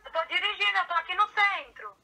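friend's voice over a phone speaker; distant phone call audio; on speakerphone. Real, not acted. No Viva Voz.

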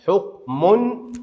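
حكم very slowly split, ending in "-mun"; high, drawn-out حكم with a ringing "-un"; tanween with damma. Shown as a demonstration. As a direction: stretch out "huk... mun" for حكم. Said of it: "ويأتي التنوين بالضم".

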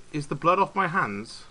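lightly played-up British accent; British accent, slightly put on. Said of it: "he said in a very British accent".

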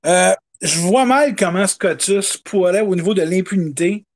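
natural Québécois accent; quebec french accent. Real, not acted. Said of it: "ça, de l'accent du Québec, ça va venir".

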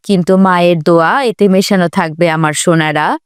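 low, tender motherly voice; loving mother. Acted. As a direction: offer old clothes to the children with love. (স্নেহময়ী মায়ের নিচু গলা)

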